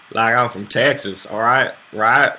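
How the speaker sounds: lightly put-on Texas accent. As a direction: have a go at a mock Texan accent. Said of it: "if I'm doing British or Texas".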